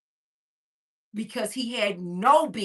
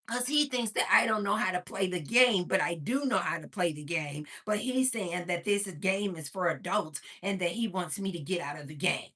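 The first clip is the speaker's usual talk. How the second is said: lightly imitated little boy, low-key; a hint of a cute small child explaining; Gary; 4 semitones lower, 4 dB quieter than usual. Son explaining to his mother, lightly imitated child. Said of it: "this is how Gary's talking".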